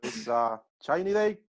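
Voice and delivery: lightly voiced Peruvian sportscaster; a hint of radio play-by-play patter; football announcer. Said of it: "the speaker's impression of a football announcer".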